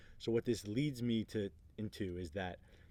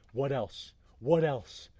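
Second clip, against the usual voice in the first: raised, louder repeated demand; insistent prompting; 4 semitones higher, 7 dB louder, slower than usual. Retold or imitated. Leader to man in his face, insistent prompting. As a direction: imitate a leader pressing for more, building louder. Larry presses the ranting man.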